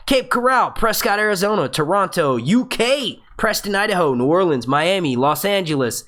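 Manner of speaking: high-pitched roll call; calling out places. Real, not acted. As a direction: call each place out to the crowd. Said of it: "Let me yell out some places".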